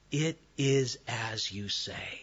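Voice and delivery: calm quiet answer. Retold or imitated. Jesus' quiet answer to Pilate.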